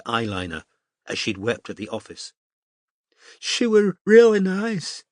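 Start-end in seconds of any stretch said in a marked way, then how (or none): 3.4-5.0 high, slow, sobbing words; through sobs. A narrator's reading. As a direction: break down crying on each word. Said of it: "said Zoe through sobs".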